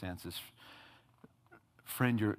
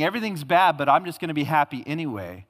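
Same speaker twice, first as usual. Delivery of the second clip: mock Pollyanna optimism; 4 dB louder, faster than usual. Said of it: "He's not saying".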